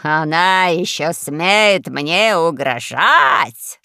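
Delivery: drawn-out, outraged exclamation; stretched-out cry of outrage; indignant shout. A narrator's reading. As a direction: bellow it slowly in disbelief. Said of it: "закричал адмирал".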